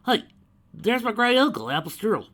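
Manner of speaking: high, loud cheerful hail; cheery call. A narrator's reading. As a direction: point him out with glee. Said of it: "Applejack pointed out cheerily".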